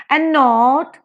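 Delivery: light "and", strong "not"; iambic stress. Shown as a demonstration. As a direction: punch "not" in "and not". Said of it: "unstressed and stressed".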